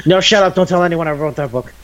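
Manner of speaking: high, rushed retort of someone exposed; mock panicked hushing. Retelling the boy begging her to keep his book secret, mock panic. Acts character caught over embarrassing book.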